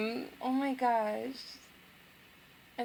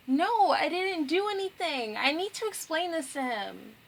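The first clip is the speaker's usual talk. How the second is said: acted higher-pitched protest; pleading; 6 semitones higher than usual. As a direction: plead as the wronged girl, mildly panicked. Voicing a character's desperate protest.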